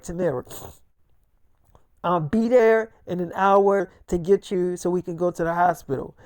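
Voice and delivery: low, soft and soothing to his wife; calming wife. Retold or imitated. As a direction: settle her down gently.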